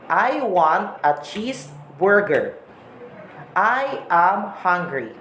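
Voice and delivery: every syllable said slowly and evenly, "I want a cheeseburger"; slow demo with each syllable of "I am hungry" pressed separately; Filipino English syllable stress. Shown as a demonstration. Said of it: "An emphasis of pronouncing each letter or syllable".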